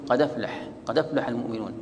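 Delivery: قد أفلح run together as qa-daflaha; no glottal stop between قد and أفلح; hamza dropped. Shown as a demonstration. Teacher shows how hamza falls away, قد أفلح joined up. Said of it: "تسقط الهمزة، فتقول".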